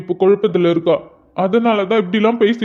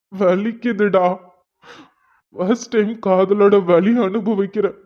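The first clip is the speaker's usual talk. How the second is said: anguished, halting lament; tearful. Acted. Hurt lover telling Hari he cannot bear the pain, tearful. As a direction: let the heartbreak weigh on the words, pausing between them. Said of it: "அழாதடா".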